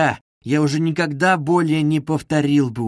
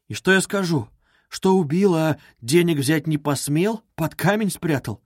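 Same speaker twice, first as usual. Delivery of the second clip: caustic smirk; 2 semitones higher than usual. Acted. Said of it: "прибавил он с едкой усмешкой".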